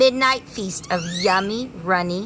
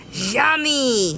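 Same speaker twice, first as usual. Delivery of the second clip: buzzing bee; 5 semitones higher than usual. Acted. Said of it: "he buzzed".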